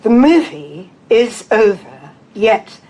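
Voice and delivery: slow, measured poem recital with deliberate pauses; poetry reading. Acted. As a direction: read verse aloud, phrase by phrase. Begins reading second poem.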